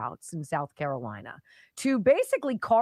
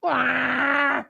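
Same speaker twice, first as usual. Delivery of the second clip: shouted right; 3 semitones higher, 4 dB louder than usual. Real, not acted. Indignant rhetorical shout.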